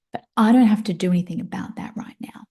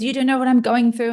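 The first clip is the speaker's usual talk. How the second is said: daughter's retort; 4 semitones higher, 3 dB louder than usual. Retold or imitated. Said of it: "and then she says".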